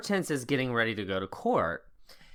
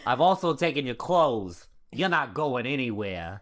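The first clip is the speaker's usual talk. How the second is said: laughing mock Brooklyn. Husband's quote, laughing through it.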